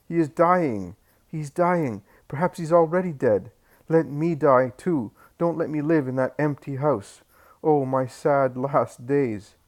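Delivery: high, loud grieving plea, slowing at the end; weeping despair. A narrator's reading. Old Eli weeping over his dying grandson, high loud lament. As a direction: sob out the grandfather's grief, dragging the last line. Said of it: "And he weeps".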